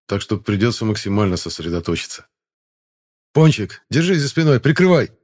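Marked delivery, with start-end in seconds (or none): 3.3-5.1 loud, high battle command; barked order. Acted. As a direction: shout the order to cover you. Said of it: "Отдал я приказ".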